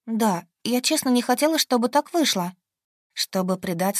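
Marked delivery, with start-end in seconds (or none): 0.1-2.5 high, pleading apology. A narrator's reading. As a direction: beg him, high and earnest. Heroine pleading.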